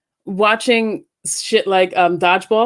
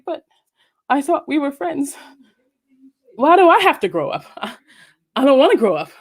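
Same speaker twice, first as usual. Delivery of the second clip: mock whiny child; 6 semitones higher than usual. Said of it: "And I was like".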